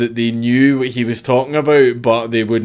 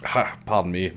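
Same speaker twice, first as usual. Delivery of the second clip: hoarse right after coughing; clearing the throat, a bit rough; 3 semitones lower, 7 dB quieter than usual. Real, not acted. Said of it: "Sorry, bad cough".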